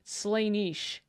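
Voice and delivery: Slaanesh with AY, then a long EE; weird pronunciation. Shown as a demonstration. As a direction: try Slaanesh softly as "SLAY-neesh". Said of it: "He's pronouncing it weird".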